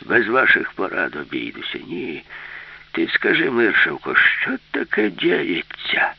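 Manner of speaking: put-on cranky old man, drawn out at the end; muttered old-timer indignation; grumbled. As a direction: grumble as a stubborn grandpa. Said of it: "буркнув дід".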